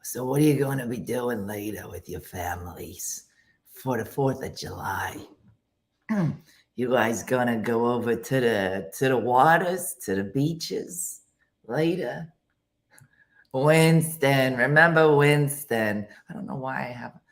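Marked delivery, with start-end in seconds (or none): 0.0-12.3 lightly put-on Jewish accent; chatty Jewish-accented smoker, hammed up a little. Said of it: "a Jewish accent when I'm doing this". 13.5-16.1 lightly put-on Jewish accent. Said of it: "a Jewish accent when I'm doing this".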